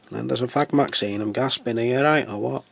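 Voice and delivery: put-on Mancunian accent. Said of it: "that's what they actually talk like around here".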